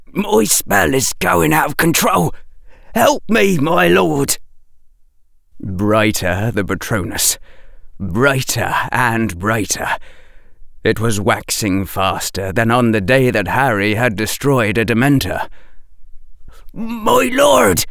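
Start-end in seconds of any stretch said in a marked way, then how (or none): 0.1-4.4 high, urgent disguised plea; disguised pleading voice. A narrator's reading. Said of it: "whispered the disguised voice". 16.7-17.8 high, urgent, frightened plea; whispered fear. A narrator's reading. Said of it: "in a terrified whisper".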